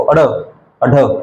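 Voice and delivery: अड़, अढ़ said very slowly with a flapped tongue; teacher demonstrating ड़ and ढ़ slowly; slow demo of flapped sounds. Shown as a demonstration. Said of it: "इनको बोल के देखो".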